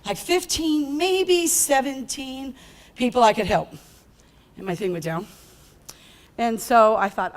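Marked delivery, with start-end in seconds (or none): 0.0-3.7 unsure, with a slow drawn-out maybe seventeen; hesitant lowball. Shown as a demonstration. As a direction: shrink the number timidly, stretching maybe seventeen. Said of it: "this is exactly how I said it".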